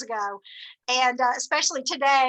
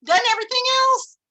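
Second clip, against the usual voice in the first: higher and brighter, a lightly voiced feisty elder; retelling a senior colleague, lightly voiced; spunky old lady; 10 semitones higher, 5 dB louder than usual. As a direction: play the seventy-something director who just decided. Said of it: "She said".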